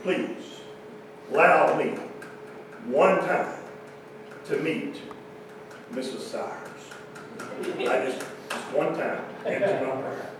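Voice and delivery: hushed, begging prayer, fading toward a whisper; mock pleading prayer. Bitter salesman praying to God, hushed begging. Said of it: "to God in my prayer".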